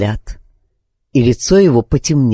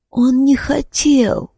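high, slow and faint, like a dying woman; frail pleading voice; 12 semitones higher, slower than usual. A narrator's reading. Dying wife pleads for Milo, high and slow. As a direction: plead slowly from the sickbed.

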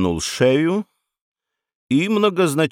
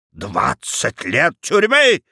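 baroness shouting; slower than usual. Acted. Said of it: "закричала баронесса".

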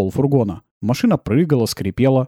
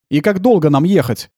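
asked loudly, a bit higher; raised voice from the back of the van; loud question; 4 semitones higher, 4 dB louder than usual. Acted. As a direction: call the question out over the engine. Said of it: "громко спросил Кир".

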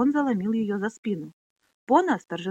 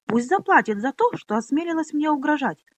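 spiteful demand; 7 semitones higher, 5 dB louder than usual. Acted. Pona demands revenge.

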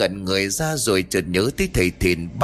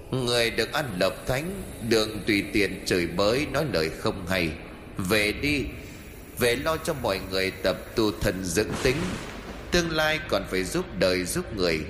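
soft, distant voice from above; echoing voice from the sky; 5 dB quieter than usual. Acted. Unseen immortal tells Phi to go home, soft and distant. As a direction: speak as an unseen immortal, hushed.

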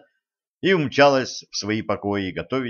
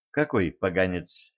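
wary; 3 semitones lower, 4 dB quieter than usual. Acted. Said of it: "насторожилась Женька".

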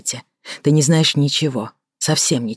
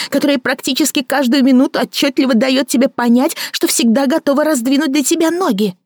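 a bitter woman mocking her lover; Victoria mocking; 11 semitones higher than usual. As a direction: sneer at his fancy words. Victoria mocking his thoughts.

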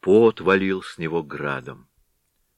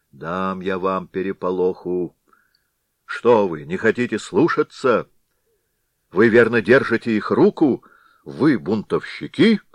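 louder, rising anger; angry threat; 5 dB louder than usual. Acted. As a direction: threaten the crowd, getting hotter. The Head threatens the villagers. (Голова грозит толпе, всё злее)

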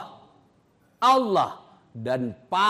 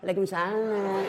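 mock sweet reply; 3 semitones higher than usual.

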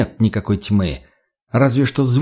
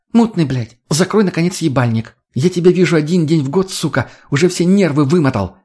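barking at him; 5 semitones higher than usual. Acted. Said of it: "рявкнула Лена".

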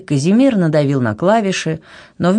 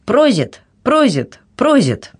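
high, identical mechanical repeats; mechanical man; 8 semitones higher, slower than usual. A narrator's reading. Mechanical man toasting each time the cup is pressed, mechanical. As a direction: repeat it like an automaton, pitched up. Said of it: "механический человек повторял".

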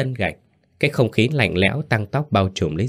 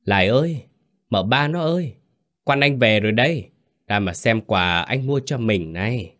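a tipsy husband calling out cheerfully, higher at the start; joyful calling out; 3 semitones higher than usual. Acted. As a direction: call into the house, pleased with himself. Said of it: "hân hoan gọi vọng vào".

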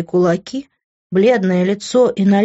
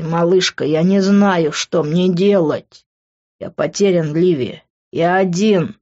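tearful despair; slower than usual. Acted. Grant crying, embracing her.

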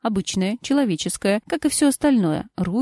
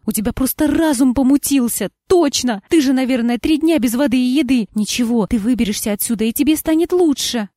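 agitated insistence; 3 semitones higher, 4 dB louder than usual. Acted. Wife insists he is delirious.

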